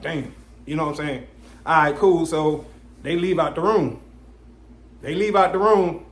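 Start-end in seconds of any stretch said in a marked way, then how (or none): 0.0-0.3 muttered inner damn. Retold or imitated. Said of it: "I'm like".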